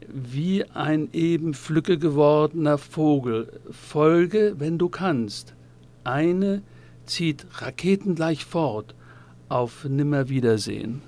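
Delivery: deliberate, projected poem reading with clear line breaks; poetry recitation. Acted. Host recites Gerstl's poem as a lead-in, deliberate recitation. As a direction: recite it line by line, shaping each image.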